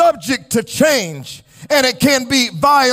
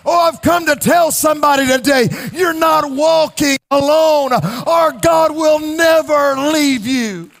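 preaching at full force. Acted. Preacher rallying the congregation with a full, rousing preaching voice. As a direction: lift the church up, let it ring.

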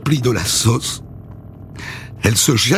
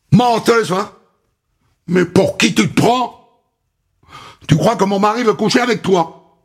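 angry scolding; 4 semitones higher than usual. Acted. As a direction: spit scorn at the girl. Linda berates Tina. (colère méprisante)

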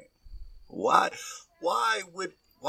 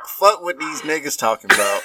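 laughing; 6 dB louder than usual. Real, not acted. Dog howling, host cracks up.

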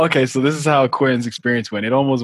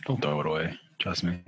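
soft urging; 7 semitones lower, 12 dB quieter than usual. Real, not acted. Friend urging keep it.

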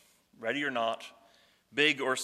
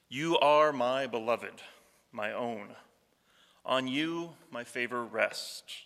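tender, slow voice of God; slower than usual. Shown as a demonstration. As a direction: let the listeners hear God's tender words. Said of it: "Listen to what it says".

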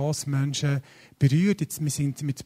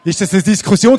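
laughing; 5 semitones higher, 11 dB louder than usual. Real, not acted. Joking with congregation about football.

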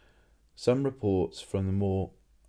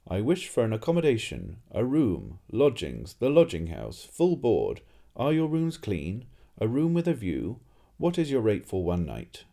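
rattling off every phrase louder, barely pausing; all in one breath; 3 semitones higher, 4 dB louder than usual. Acted. Tourist reading phrases from his book to the innkeeper, in one breath. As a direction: cram every phrase into a single eager breath. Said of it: "said Two Flower in one breath".

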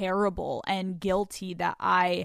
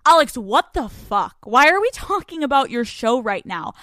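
louder, irritated retort from her partner; angry partner; 7 dB louder than usual. Retold or imitated. Angry partner demanding why she brings up her show. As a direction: snap back at her in disbelief. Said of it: "He literally gets, like, angry".

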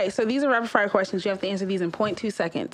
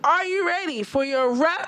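trying not to laugh; 5 semitones higher than usual. Real, not acted. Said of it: "you guys keep making me laugh".

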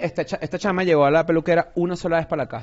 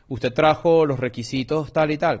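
put-on slow, lightly Mexican-accented clerk; a hint of a Mexican accent, slow; slower than usual. Tax clerk asking for documents, slow light Mexican accent. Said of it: "con acento mexicano".

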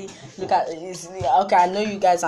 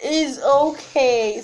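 reassuring; 5 semitones higher, much slower than usual. Real, not acted. Comforting crying child.

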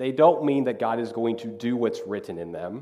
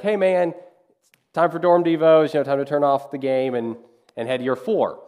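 calling out; 3 dB louder than usual. Retold or imitated. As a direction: call him over from the door. Calling to guy still watching TV.

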